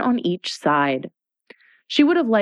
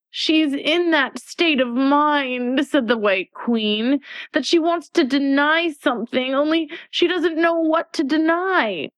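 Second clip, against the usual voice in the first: fussy White Queen; 9 semitones higher than usual. Acted.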